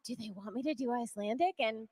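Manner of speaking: normal talking voice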